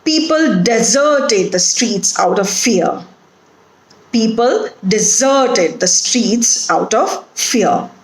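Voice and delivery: deserted said de-ZERT-ed; careful example sentence, stressing ZERT in deserted; stress on second syllable. Shown as a demonstration. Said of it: "the stress is on the second syllable".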